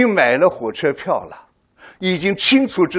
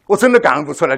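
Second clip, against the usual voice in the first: 的 stressed and pushed louder; louder plea; 5 dB louder than usual. Retold or imitated. Kneeling man insisting to God he cannot give thanks, louder. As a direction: insist it more strongly. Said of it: "你们能不能同情我".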